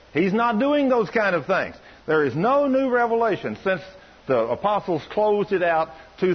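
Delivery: high-pitched indignant retort, mildly imitated. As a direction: imitate a man firmly laying down doctrine. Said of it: "he just got indignant with her".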